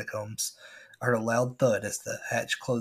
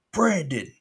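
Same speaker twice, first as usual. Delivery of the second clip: shouted name, higher and louder; booming shout; 6 semitones higher, 6 dB louder than usual. Retold or imitated. Pirate animatronic booming at the hiding narrator. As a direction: bellow the name like a monster pirate. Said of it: "his voice boomed".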